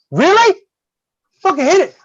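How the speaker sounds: exasperated yell. Retold or imitated. Teacher yelling at a weak hit.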